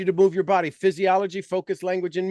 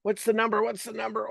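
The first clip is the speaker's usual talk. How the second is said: nervous; 5 semitones higher than usual. Shown as a demonstration. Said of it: "you're, like, nervous, going".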